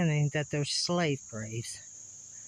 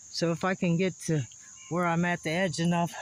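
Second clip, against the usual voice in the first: talking while catching breath; winded, short of air. Real, not acted. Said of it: "sorry, I'm out of breath".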